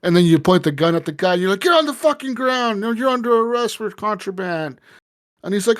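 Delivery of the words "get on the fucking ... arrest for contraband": high-pitched mock police yell; acted cop command. Retold cop arresting a smuggler at gunpoint, mock yell. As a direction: order the suspect down in a raised, hammed-up pitch.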